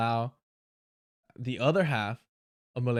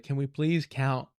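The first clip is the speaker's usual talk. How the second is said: mock dim voice; slower than usual. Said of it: "their political awareness and intellect is like".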